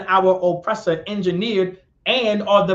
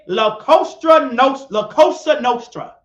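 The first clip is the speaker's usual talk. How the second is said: louder, defiant comeback; retort; 3 dB louder than usual. Retold or imitated. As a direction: fire it back at him.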